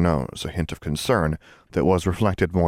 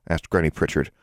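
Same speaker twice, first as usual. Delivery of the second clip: usual speaking voice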